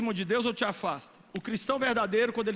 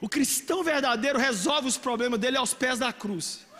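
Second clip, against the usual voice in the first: usual speaking voice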